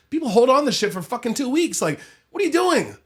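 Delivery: ranting in disbelief at grudges; incredulous rant. Real, not acted.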